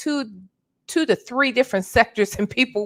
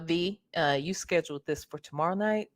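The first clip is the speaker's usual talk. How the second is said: reading a viewer's comment; 5 semitones lower, 10 dB quieter, faster than usual. Retold or imitated. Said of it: "saw Leo Lady in the comments talking about".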